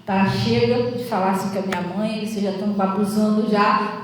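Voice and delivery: um filho firme, bem mais grave e mais baixo; voz do filho. Retold or imitated. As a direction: falando sério para acabar a briga. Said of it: "ele falou". (filho Igor defendendo a mãe, grave e firme)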